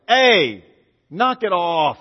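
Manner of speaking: loud, commanding call to the storm; sharp rebuke. Retold or imitated. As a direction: shout the storm down. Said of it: "he stands up and he's like".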